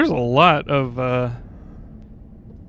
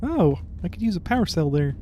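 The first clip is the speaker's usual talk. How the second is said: Kermit voice; 3 semitones higher, 4 dB quieter than usual. Acted. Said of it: "my Kermit voice".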